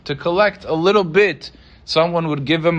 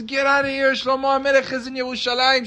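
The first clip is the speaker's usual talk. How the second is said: scornful shout; 8 semitones higher than usual. Acted. Woman chasing him with stick.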